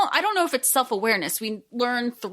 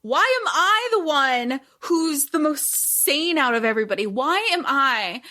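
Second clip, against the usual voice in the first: put-on exasperated teen; 4 semitones higher than usual. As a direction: plead as the only sane one. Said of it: "Kate will be like".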